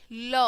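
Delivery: ल as "luh", consonant plus short vowel; letter sound demo. Shown as a demonstration. Teacher showing the sound of L, letter sound demo. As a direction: sound out ल on its own. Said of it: "एल की sound कैसे आएगी".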